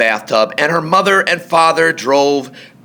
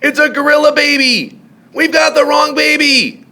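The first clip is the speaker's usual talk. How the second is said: high, louder alarmed cry; panicked shout; 3 dB louder than usual. A narrator's reading. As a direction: shout it in a fright. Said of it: "they both yelled".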